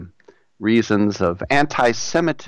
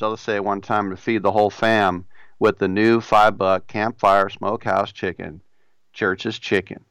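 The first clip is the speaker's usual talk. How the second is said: put-on Southern accent. Radio host reading a chicken ad in a put-on Southern accent. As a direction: sell the chicken like a down-home Southern pitchman. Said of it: "Why do I do a Southern accent?".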